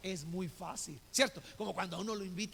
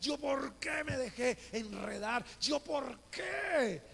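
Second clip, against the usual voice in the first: angry self-reproach; 3 semitones higher than usual. Retold or imitated. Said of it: "tenía una rabia y estaba quejándome".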